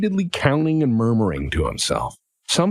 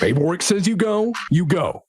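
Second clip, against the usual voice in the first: higher, mildly harried insistence; flustered official; 5 semitones higher than usual. Acted. Official sending workers off, flustered. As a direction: wave them through, at wit's end. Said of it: "he's, like, sweating".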